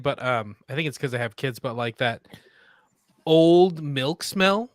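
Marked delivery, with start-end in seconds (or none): 3.2-4.7 slow, whispered disgust. Real, not acted. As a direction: whisper it in revulsion. Disgusted describing vomit.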